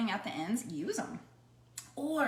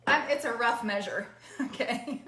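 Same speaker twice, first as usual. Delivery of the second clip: laughing; 2 semitones higher, 3 dB louder than usual. Real, not acted. Laughing at her own measuring.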